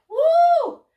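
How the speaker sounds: loud, delighted whoop, then eager chatter; whooping cartoon bee, loud and emphatic; excited bee. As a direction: play a bee thrilled to spot a flower. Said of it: "they're looking at you like".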